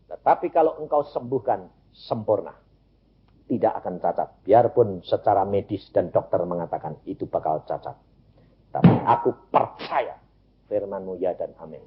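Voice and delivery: low, softened prayer of surrender; subdued prayer. Retold or imitated. Father entrusts child's healing to God, low subdued prayer.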